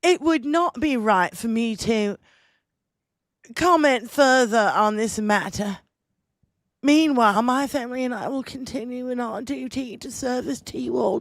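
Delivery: mock-royal English accent read. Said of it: "It's a shitty English accent".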